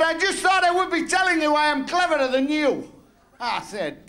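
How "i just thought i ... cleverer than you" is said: high, sing-song mock Pakistani accent on the neighbour's boast; lightly put-on Pakistani accent, lifted pitch.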